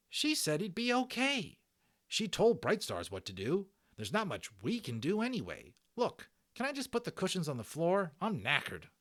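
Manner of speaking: put-on high loud scoffing kid voice; exasperated boy. Patrick mocking Omri for missing the belly, high scoff. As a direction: roll your eyes at your friend.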